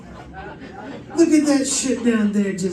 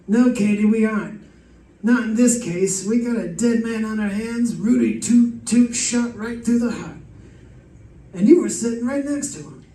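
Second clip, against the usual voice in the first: louder, no more joking; detective cuts the banter to press the murder case; stern and firm; 3 dB louder than usual. Acted. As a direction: lay down the facts hard. Lieutenant turns serious about the murder.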